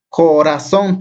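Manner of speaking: CORAZÓN drawn out slowly, syllable after syllable; slow teacher's breakdown of "Corazón". Shown as a demonstration. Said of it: "tiene tres sílabas".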